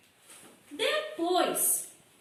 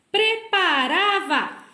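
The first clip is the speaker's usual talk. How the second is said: slow syllables; 3 semitones higher, 5 dB louder, much slower than usual. Shown as a demonstration.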